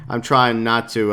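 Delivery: ordinary talk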